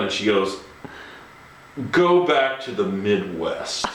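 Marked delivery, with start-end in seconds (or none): 1.9-3.9 dismissive put-down. Retold or imitated. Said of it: "looks me up and down".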